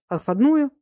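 startled echo, pitched high and loud; встрепенулся. A narrator's reading. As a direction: jolt up as if caught off guard. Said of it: "встрепенулся Василий Николаевич". (удивлённо переспрашивает, высоко и громко)

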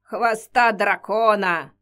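dramatic slow proclamation. Acted. Witch dramatic announcement.

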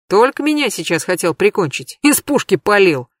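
usual speaking voice

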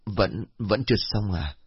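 frightened stumbling over his words; scared old man stammering, wanting to go home; trembling stammer. Acted. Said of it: "Run giọng, ông Kha liền ấp úng".

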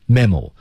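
"mammal" with fully sounded vowels; full vowels. Shown as a demonstration. Teacher repeats the word for students, "mammal" with full vowels. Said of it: "元音饱满".

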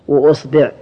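وأصبع said "wa-usbi'", u then i; u on the hamza, then "bi'"; u-i vowels. Shown as a demonstration. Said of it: "ضم الهمزة".

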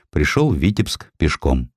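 plain reading voice

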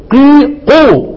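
slow demo of قي then قو, drawn out; the vowel of قو drawn out with rounded lips; slow syllable demo. Shown as a demonstration. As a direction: break قي and قو apart slowly for the student. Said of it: "تبدأ بالإيه؟".

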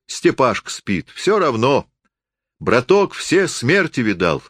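high, unhurried rustic voice; drunken forester, philosophising. A narrator's reading. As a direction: reassure tipsily, musing about death. (пьяный лесник философствует, высоко)

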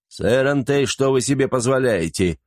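a hint of indignation; indignant. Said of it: "возмущённо заговорил он".

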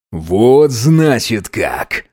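very slow, mild menacing growl; understated slow snarl. Acted. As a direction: drag it out like a threat. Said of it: "прорычал".

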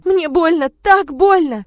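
high, loud tearful wail; crying complaint. Acted. Crying daughter tells father how it hurts. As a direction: wail the pain through sobs.

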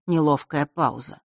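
usual speaking voice

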